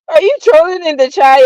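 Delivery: laughing through the words; giggling at a troll. Real, not acted.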